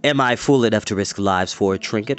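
low, unhurried villain voice; coolly menacing Dorath. Acted. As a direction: taunt him calmly, in no rush.

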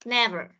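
Never with an open e in the first syllable; vowel demo. Shown as a demonstration. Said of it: "Nó phát âm là e".

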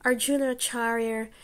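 put-on gently pleading like an errand boy; young boy. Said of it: "The boy said".

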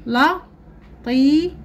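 لطيف drawn out high and slow. Shown as a demonstration. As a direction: stretch لطيف for pupils. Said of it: "لدينا الكلمات نقرأها".

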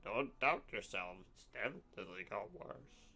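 slow, slurred barfly voice; drunk man voice. Retold or imitated. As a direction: lean into the drunk slur. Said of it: "I don't think I should do that kind of voice again".

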